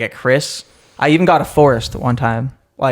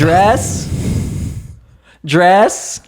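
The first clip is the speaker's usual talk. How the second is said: higher-pitched mock yell, rising like a question; calling out; 6 semitones higher than usual. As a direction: call an order across a restaurant. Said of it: "He yells out".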